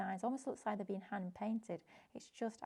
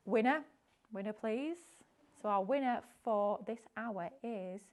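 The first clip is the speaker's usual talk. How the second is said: hyped giveaway announcement; 4 dB louder than usual. Acted. Calling the prize draw winner.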